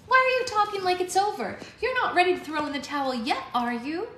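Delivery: put-on worried teen girl, pushing back fast; young girl voice. A narrator's reading. Young fairy Alex, upset.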